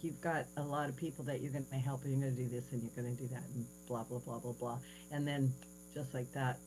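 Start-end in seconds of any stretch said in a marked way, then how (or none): 0.0-4.8 Jesus' message. Retold or imitated. Jesus rattling off her mission, soft and quick. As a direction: rattle off the instructions quietly.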